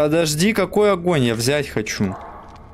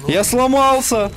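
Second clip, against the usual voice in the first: mock wail; 9 semitones higher, slower than usual. Game glitch, mock wail.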